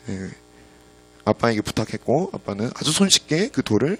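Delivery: ordinary talk, nothing marked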